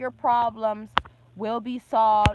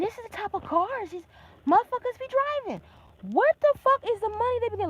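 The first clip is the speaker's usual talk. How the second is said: incredulous outrage; 10 semitones higher than usual. Real, not acted. Outraged rant at strangers' cars.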